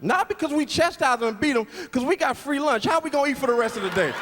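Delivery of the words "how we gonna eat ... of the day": fast comic shout. Real, not acted. Comic shouting the free lunch punchline at the crowd. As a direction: rush it out in a shout.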